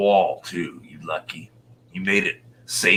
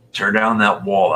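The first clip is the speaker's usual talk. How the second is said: Reagan quote; 3 semitones higher, 8 dB louder than usual. Retold or imitated. Quoting Reagan's famous demand.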